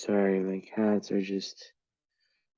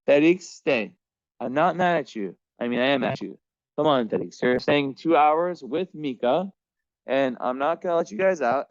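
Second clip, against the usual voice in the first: scolding cat; 3 semitones higher than usual. Real, not acted. Owner locking her cats in together, high firm scolding.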